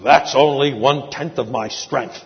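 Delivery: a hint of a drill sergeant showing off; mild mock boast from the old army vet; teacher's boast. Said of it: "and he would say".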